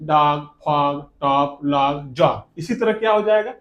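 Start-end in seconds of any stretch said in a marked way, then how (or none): 0.0-2.6 डॉग, फॉग said slowly with an open "aa" vowel; धीरे-धीरे, ओ को आ बोलते हुए. Shown as a demonstration. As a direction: stretch each word, o sounded like aa. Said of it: "आ लेंगे।".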